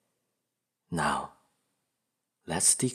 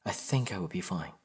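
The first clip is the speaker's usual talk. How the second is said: subdued, understated self-reassurance; self-doubt. Acted. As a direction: reassure yourself without much conviction. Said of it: "There's always self-doubt".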